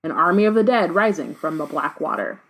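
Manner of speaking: dramatic read-aloud of a novel; story narration. A narrator's reading. Reader tells co-host of the dead rising, story narration. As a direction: narrate the rising menace, leaning into key phrases.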